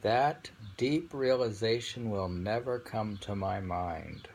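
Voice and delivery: slow, weighty poem recital; poem reading. Acted. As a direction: read it as a solemn verse. Reads a poem aloud.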